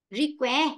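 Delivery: "request" with weight on the last syllable; stress on final syllable. Shown as a demonstration. Teacher models a suffix for the class, final-syllable stress on "request". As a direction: stress the ending of "request", pitch rising. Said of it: "trọng ấm sẽ rơi ngay chính những cái ấm này".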